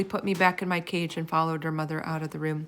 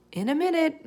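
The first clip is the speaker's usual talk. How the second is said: called back; 9 semitones higher than usual. A narrator's reading. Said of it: "Missus Kaminsky called back".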